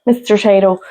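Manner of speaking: Mister Tayto in an Irish brogue. Shown as a demonstration. Co-host repeating the crisp mascot's name, Irish brogue. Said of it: "Have to say it with a brogue".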